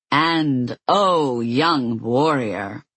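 slow, gloating exultant cry. Acted. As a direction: savour it, exulting. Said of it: "cried Deimos in exultation".

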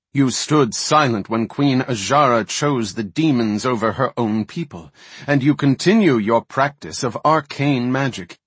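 stern accusing voice, rising; mounting rebuke. Acted. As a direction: build the accusation steadily. Malfurion rebuke.

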